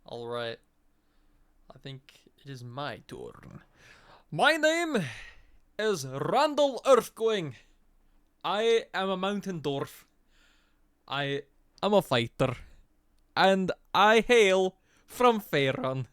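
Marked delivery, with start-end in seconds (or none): 4.3-16.1 dwarf introduction. Acted.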